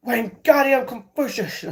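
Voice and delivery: high, drawn-out incantation; mock spell casting. Streamer jokingly casting a made-up spell, mock incantation.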